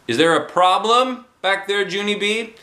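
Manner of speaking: a hint of a teacher checking on a pupil; teacher asking. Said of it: "she asked".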